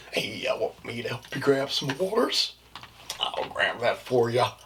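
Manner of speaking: chirpy customer service voice; eager helpful shop assistant; work voice. Acted. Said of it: "so it's like".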